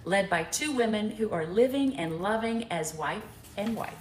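low, measured card-reading voice; reading a note aloud. Real, not acted. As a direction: read the gift poem out to the room. Reads a gift note aloud.

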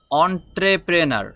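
অন্ট্রেপ্রেনার said with an open "on" at the start; correct pronunciation. Shown as a demonstration. Teacher showing learners the right sound: অন্ট্রেপ্রেনার begun with "on". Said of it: "এটার উচ্চারণ হবে".

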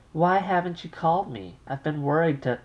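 fretful mother raising her voice; mother yelling. Acted. Mother yells at her daughter down the phone line. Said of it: "don't yell at me".

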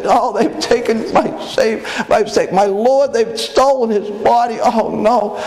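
high, slow, grieving lament; weeping Mary. Acted. Mary weeping at the empty tomb, high slow lament. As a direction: cry out the loss of the Lord, slow and high.

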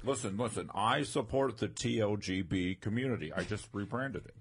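lightly voiced celebrity impression; insistent, self-important impersonation; Caitlyn Jenner. Comic claiming the community in character, light Caitlyn Jenner impression.

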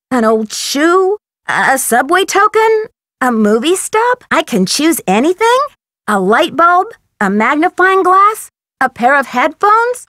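each item rising as a question; tentative guessing. Acted. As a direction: offer hesitant guesses, one by one. Guesses objects for the painting.

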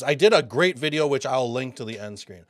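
quick, excited aside; fast-talking, excited explanation. Real, not acted. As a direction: rattle it off with excitement. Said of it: "I'm excited. I'm talking fast".

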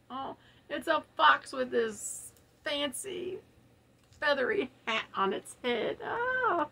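choked up with real tears; tearing up. Real, not acted. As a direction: voice catching, close to crying. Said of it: "I don't wanna cry again".

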